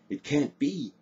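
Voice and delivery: high, dismayed moan; shocked moan. A narrator's reading. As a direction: moan it in disbelief. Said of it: "moaned Morgan aloud and in shock".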